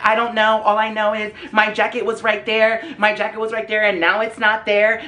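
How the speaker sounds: frantic accuser. Retold or imitated. Acted frantic woman answering friends.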